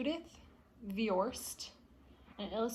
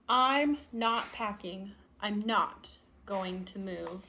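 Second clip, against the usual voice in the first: stubborn refusal; 3 semitones lower, slower than usual. Acted. Child refuses, slowly.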